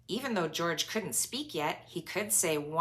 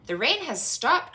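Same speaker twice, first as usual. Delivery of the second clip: excited cry; 8 semitones higher, 8 dB louder than usual. Acted. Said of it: "cried Peppa".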